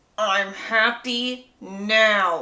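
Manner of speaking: squeezed through gritted teeth, drawn out. Retelling a book character's reply to Charlie, acted out through gritted teeth. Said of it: "she says through gritted teeth".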